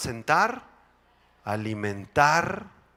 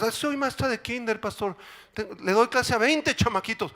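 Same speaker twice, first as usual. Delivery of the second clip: teacher voice; 10 semitones higher than usual. Pretend. Congregant voiced.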